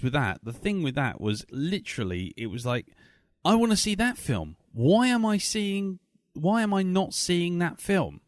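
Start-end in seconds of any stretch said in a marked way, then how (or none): 3.4-8.2 excited high whine. Retold or imitated. Audience wish voiced as quote.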